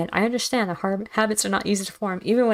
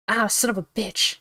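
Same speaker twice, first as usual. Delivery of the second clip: sharp pain, slow; cursing through a sudden sting; pained curse; 4 semitones higher, slower than usual. Real, not acted. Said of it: "Sorry, it's just".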